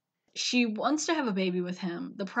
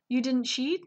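mock-sad question, voice lifted; sad retelling; 4 semitones higher than usual. Leo asks his wife if she cheated, mock sad. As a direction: ask it in a hurt, higher voice. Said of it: "feels so bad and, like, sad".

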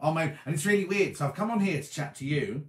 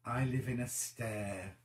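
softer, slower mulling over I live in a stair; quiet puzzled repeat; 5 semitones lower, 9 dB quieter, slower than usual. Shown as a demonstration. Rereading the viewer comment to herself, quiet and puzzled. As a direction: murmur the phrase again to yourself, puzzled. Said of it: "Wonder what that's meant to say".

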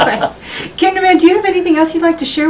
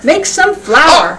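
slow repeat; much slower than usual. Shown as a demonstration.

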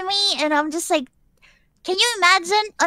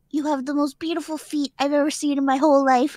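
measured creepy compliment. Retold or imitated. First reveal of the man's line.

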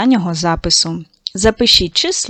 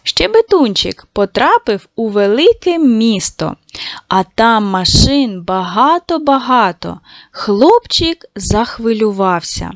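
storytelling voice. Acted. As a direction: tell it gently like a bedtime tale. Teacher reading a story to children. (вчителька читає дітям казку м'яко)

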